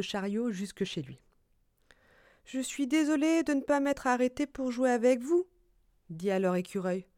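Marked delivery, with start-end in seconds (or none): 2.4-5.5 slightly higher squirrel voice; apologetic squirrel. Acted. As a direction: apologise to friends in a small raised voice. Écureuil s'excuse auprès des amis. (excuses d'écureuil, voix plus haute)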